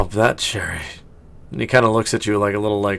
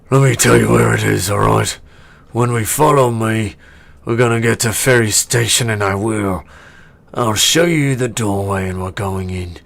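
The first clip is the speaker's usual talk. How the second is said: orc voice; 4 dB louder than usual. Acted.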